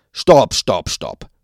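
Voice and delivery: rapid loud stop, stop, stop; hasty calls. A narrator's reading. Waldemar cuts Trixie off at once, loud hurried calls. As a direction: blurt it out to cut her off. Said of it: "rief Waldemar, so schnell wie er eben konnte".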